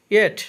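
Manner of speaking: ইয়েট ending in an aspirated "th" ঠ; aspirated final T. Shown as a demonstration. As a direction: put a puff of air on the T of ইয়েট. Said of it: "লাস্টে টি এর উচ্চারণ". (ইয়েট, শেষের ট হবে ঠ)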